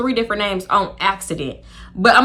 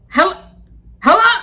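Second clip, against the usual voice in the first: incredulous hello; 9 semitones higher, 7 dB louder than usual. Pretend. Mock disbelief at friend's answer.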